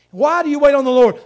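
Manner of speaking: loud, high challenge to the room; forceful preaching question. Real, not acted. Preacher demanding a reason from the congregation, forceful shout. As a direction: cry the question out.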